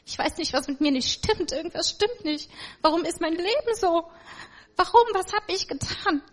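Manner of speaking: retelling a broken call for help through tears; tearful plea. Retold or imitated. Daughter calls her mother for help, mild retold tearful pleading. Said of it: "hab so geweint und hab meine Mutter angerufen".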